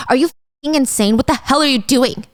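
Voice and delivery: fast, angry confrontation; furious whisper-free rant at a reckless friend. Acted. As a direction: snap at her in disbelief. Ari furious at Angela.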